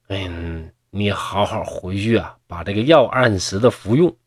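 a hint of a stern old doctor, measured and firm; earnest warning. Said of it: "就嘱咐说".

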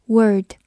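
"word" with a long vowel and no l; no glide. Shown as a demonstration. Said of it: "发音里没有滑音". ("word"不带滑音)

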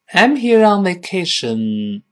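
high, slow, loud sentence; loud model reading. Shown as a demonstration. Teacher leading the class aloud, loud slow model reading. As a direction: read it out big and slow for repetition. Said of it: "跟老师大声读一遍".

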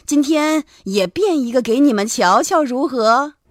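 lightly voiced old woman, slow at first; disguised old mother. Wukong posing as the demon's mother, old woman's voice. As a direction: begin slowly, a hint of old lady.

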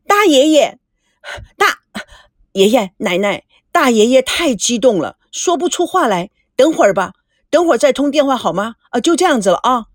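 flustered grandson. Acted. Grandson apologises to grandparents on the phone, flustered. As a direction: rush to smooth things over.

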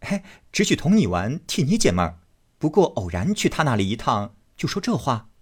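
put-on a young man teasing his cousin; teasing laugh. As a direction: tease her back gently. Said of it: "宝玉笑道".

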